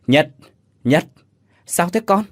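grandmother calling out, rising high at the end; urgent calling. A narrator's reading. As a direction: call the boy's name again and again to wake him. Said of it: "Tiếng bà Từ gọi dồn". (gọi dồn dập, giọng vút cao)

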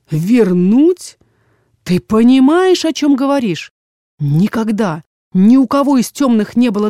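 father thrilled by his daughter's rare magic; gloating father. Acted. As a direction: let the greed for power creep into the voice. Father gloats over the gift.

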